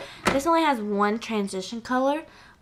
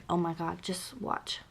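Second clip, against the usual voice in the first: soft whisper; hushed whisper to viewers; 4 semitones lower, 14 dB quieter than usual. Real, not acted. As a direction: whisper it before the reveal. Teasing a swatch reveal.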